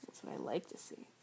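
low soft breathy whisper. Acted. Teasing during the act.

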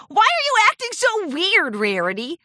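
high, loud amused question; incredulous, amused ribbing; laughing tease. A narrator's reading. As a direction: tease a friend about being odd. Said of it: "Rainbow Dash laughed".

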